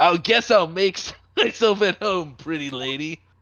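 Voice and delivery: casual dude-bro voice. Playing a guest invited inside by a host, in a bro voice. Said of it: "You were just doing like a bro voice".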